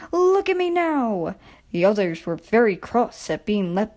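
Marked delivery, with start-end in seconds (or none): 0.1-1.4 proud little engine. A narrator's reading. Edward boasting leaving shed.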